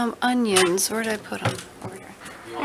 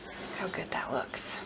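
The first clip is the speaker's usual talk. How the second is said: soft awed whisper; 3 semitones lower, 10 dB quieter than usual. Real, not acted. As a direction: breathe it out in wonder. Admiring the cooked roast.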